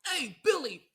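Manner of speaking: high, loud mock call. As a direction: holler at Billy in a high put-on voice. Acted shout to Billy.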